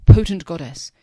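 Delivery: calls out loudly to the goddess; a loud cry of entreaty; loud beseeching call to the goddess; loud plea. A narrator's reading. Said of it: "speaking thus aloud in human accent".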